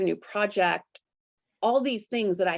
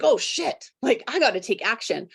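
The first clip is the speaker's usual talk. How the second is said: higher, startled jolt into action; panicked inner voice; 4 semitones higher than usual. Retold or imitated. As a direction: jump as if alarmed. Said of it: "trauma response".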